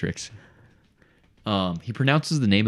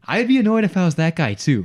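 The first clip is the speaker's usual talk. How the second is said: much higher and louder; emphatic sympathy; 11 semitones higher, 6 dB louder than usual. Real, not acted. Salesman siding with the homeowner, high and loud. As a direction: push it up high to sound indignant. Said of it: "honestly, I'm like".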